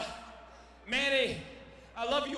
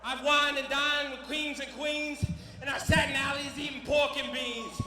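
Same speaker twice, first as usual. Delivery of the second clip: Dusty Rhodes quote; 3 semitones higher, 5 dB louder than usual. Retold or imitated. Fighter quoting Dusty Rhodes in a loud promo. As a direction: boom out the old wrestling rhyme. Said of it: "like the good old Dusty Rhodes said".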